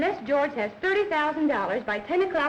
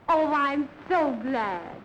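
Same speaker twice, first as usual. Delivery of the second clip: slow, drawn-out coy delight; gushing flirtation; much slower than usual. Acted. Woman delighted her admirer will come over, gushing coyly. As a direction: stretch out the delight for him.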